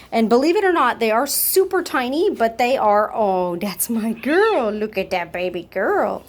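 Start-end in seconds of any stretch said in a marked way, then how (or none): 3.1-6.2 cooing pet talk. Real, not acted. Owner cooing praise at the playing kitten, slow and tender.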